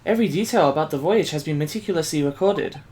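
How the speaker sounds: put-on lightly Asian-accented assistant voice; restrained Asian accent, carefully spoken; light Asian immigrant accent. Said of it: "like, an Asian immigrant".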